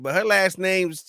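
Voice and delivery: high-pitched, baffled mock gatekeeper; mock casting people. Mimicking casting people doubting an actress by her name, mock baffled. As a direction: rush it high, fussing over the name. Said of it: "and they're like".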